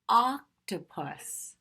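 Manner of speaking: octopus drawn out slowly; slow clear word. Shown as a demonstration. Teacher modeling the key word slowly, drawn out. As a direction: stretch every syllable of octopus. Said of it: "you shout out the word".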